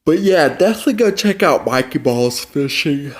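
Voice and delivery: through a yawn; words stretched by a yawn. Real, not acted. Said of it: "why am I yawning".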